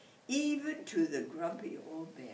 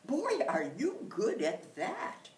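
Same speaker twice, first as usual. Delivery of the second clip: amazed; 7 semitones higher, 7 dB louder than usual. Acted. Bear amazed.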